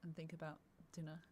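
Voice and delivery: talking while munching snacks; words through a mouthful of chips; crunching chips. Real, not acted. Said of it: "am I sorry for the crunch".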